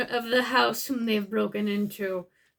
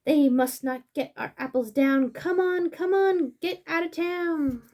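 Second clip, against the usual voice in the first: higher, eager character voice; storybook animal voice; 5 semitones higher, 6 dB louder than usual. Acted. Animal urging friends down the hall, high and eager. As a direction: urge your friends along, bright and high.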